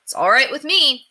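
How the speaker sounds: put-on a boy answering his pesky neighbour; cross. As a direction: snap back, annoyed. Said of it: "said Henry crossly".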